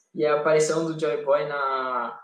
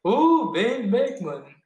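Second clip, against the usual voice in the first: excited recall; 6 semitones higher, 4 dB louder, much slower than usual. Real, not acted. Finally remembers the name.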